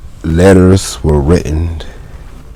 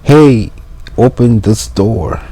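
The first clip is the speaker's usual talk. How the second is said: high, raised voice calling through a door; mailman calling; 5 semitones higher than usual. Acted. Mailman calling to be let in. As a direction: keep the mailman's call going in English.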